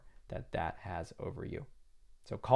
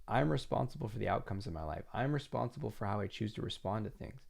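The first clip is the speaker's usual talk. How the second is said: quiet self-reminder; 5 dB quieter than usual. Shown as a demonstration. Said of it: "Just remind yourself".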